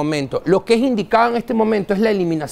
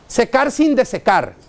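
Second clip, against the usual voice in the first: slow, mock-grand catchphrase; parroting a conference slogan with scorn; mocking the lecturers' phrase. A lecturer scoffing at a speakers' slogan, mock-solemn. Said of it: "Esa es una vaina que lo dicen los conferencistas".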